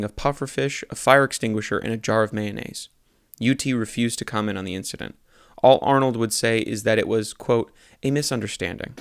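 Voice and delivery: deadpan newspaper read-aloud; earnest local news delivery; news article read. Acted. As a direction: read it straight like a news report. Reads satirical news article.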